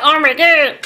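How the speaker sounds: high, loud burst of delight; thrilled shout of joy at the colors; excited squeal. Real, not acted. Vlogger thrilled by the marker blend, loud joyful outburst. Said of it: "I am so happy with this".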